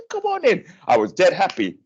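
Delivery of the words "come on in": very high mock doctor's welcome; imitating the doctor. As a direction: pitch the doctor's invitation high up. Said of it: "He says".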